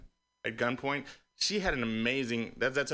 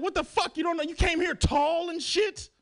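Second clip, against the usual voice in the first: mock angry yell. Comedian acting racists yelling at him, hammed-up shout. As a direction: yell it like an outraged basketball fan.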